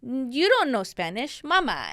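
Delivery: put-on teasing child. Son teasing his mom.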